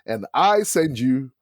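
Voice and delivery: slow, spaced-out, deliberate words; weighty, measured pronouncement; the Lord speaking clearly. Retold or imitated. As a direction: quote God slowly and clearly, word by word. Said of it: "heard the Lord speak so clearly".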